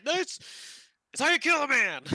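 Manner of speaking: mock fierce instructor shout; barbarian drill sergeant. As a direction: shout it as a brutal lesson. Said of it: "you're like".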